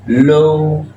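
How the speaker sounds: locomotive broken into lo, co, mo, tive with gaps; syllable by syllable. Shown as a demonstration. Teacher sounds out a loanword for learners, syllable by syllable. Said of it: "on va dire locomotive".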